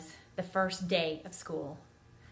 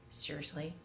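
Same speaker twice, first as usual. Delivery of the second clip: disgusted; 3 semitones lower, 5 dB quieter than usual. Retold or imitated. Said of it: "it was almost disgust".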